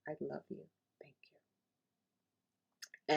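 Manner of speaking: soft, tender prayer fading to a whisper; gentle prayer. Shown as a demonstration. Speaker demonstrating the Hawaiian prayer to herself, soft and fading. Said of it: "But it goes like this".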